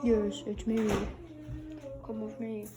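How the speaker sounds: low, soft menacing voice; creepy monster voice. Pretend. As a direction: lure them in, low and creepy. Squid Game character answers.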